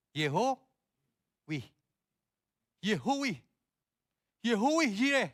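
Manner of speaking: Yehowi drawn out high and loud, mock mistaken reading; wrong reading Yehowi. Shown as a demonstration. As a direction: mispronounce as Yehowi, mocking. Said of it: "diketawain sama semut". (Yehowi dibaca salah dengan nada mengejek)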